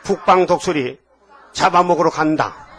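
emphatic short phrases for repeating; lead a declaration. Shown as a demonstration. Preacher has listeners repeat their identity, emphatic declaration. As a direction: declare it phrase by phrase, leaving room for echoes. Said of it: "따라하죠".

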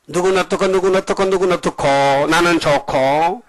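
mock a self-favouring gossip in a lilting list; devil's gossip talk. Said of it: "그게 마귀 소리야요". (남 흉보는 말투를 가볍게 흉내 내며)

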